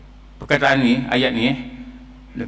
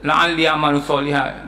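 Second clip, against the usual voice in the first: mild wailing plea; 2 semitones lower than usual. Retold or imitated. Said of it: "dalam keadaan yang meraung-raung lah dia bercakap".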